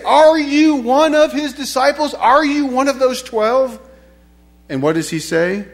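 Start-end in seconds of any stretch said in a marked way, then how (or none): 0.0-3.8 loud, high, insistent questioning; higher, pointed demand; pressing accusers' question. Acted. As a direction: challenge him like an accuser. Accusers question Peter, acted.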